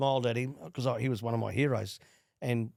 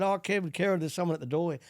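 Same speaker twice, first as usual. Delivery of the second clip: mild retold yell; 6 semitones higher than usual. Dad tells his sons someone is at the door, mild retold yell. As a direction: imitate a dad calling out to his boys. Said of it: "and he yelled out".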